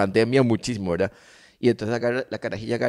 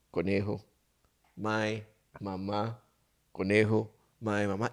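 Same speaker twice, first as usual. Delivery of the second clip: put-on toddler voice; 3 semitones lower, 11 dB quieter, slower than usual. Voicing toddler's halting answer.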